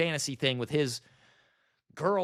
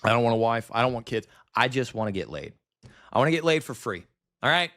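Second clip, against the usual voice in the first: bitter loud rant; 5 semitones lower, 4 dB louder than usual. Real, not acted. Venting loudly.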